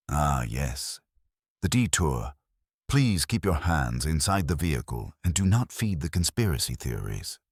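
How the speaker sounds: lightly voiced calm tour guide. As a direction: soothe them like a patient tour guide. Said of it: "your calm guide voice goes".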